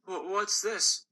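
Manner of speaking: a small candy waking up confused; startled gumball. Acted. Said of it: "the gumball said".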